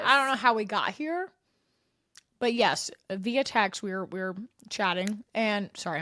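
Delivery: talking while crunching chips. Real, not acted. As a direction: speak around a mouthful of crunchy snacks. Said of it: "I'm crunching".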